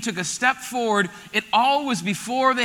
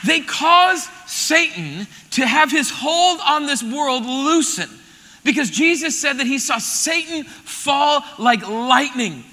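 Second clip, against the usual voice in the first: slow emphatic preaching; slower than usual. Real, not acted. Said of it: "preaching climax".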